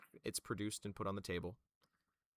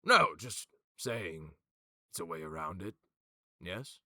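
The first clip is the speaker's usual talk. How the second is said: protest, then shrug it off; offhand schemer; 3 semitones lower, 7 dB louder than usual. Acted. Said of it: "He goes".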